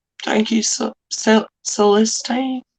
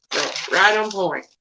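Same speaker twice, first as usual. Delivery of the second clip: usual speaking voice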